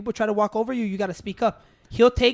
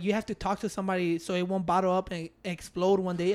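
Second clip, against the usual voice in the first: softer and lower mock counsel; mock soft advice; 5 semitones lower, 9 dB quieter than usual. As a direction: parrots the advice in a hushed voice. Retold advice, quoted softly.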